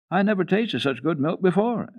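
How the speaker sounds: put-on high, eager child's voice; a small girl, delighted by the milk; little girl voice. Heidi thanking grandfather for the milk, high little-girl voice.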